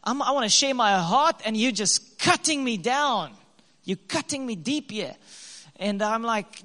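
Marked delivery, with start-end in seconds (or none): 0.0-5.2 hurt inner voice. Retold or imitated. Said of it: "my male interpretation was like".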